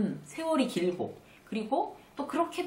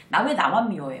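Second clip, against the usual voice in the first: whiny complaint; 7 dB louder than usual. Retold or imitated. Imitated whiny self, loud.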